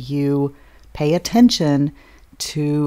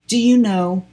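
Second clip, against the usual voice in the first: cocky; slower than usual. Retold or imitated. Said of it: "I just thought he was being really cocky".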